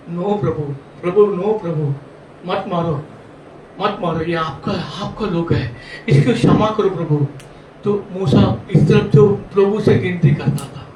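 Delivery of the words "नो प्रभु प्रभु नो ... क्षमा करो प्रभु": pleading Moses. Acted. Moses asks the Lord to spare the people, subdued pleading. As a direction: gently beg for mercy in short, separated phrases.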